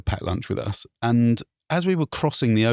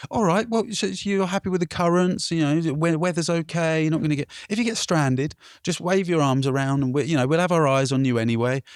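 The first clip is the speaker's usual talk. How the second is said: patrol officer; 6 semitones higher than usual. Retold or imitated. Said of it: "He said".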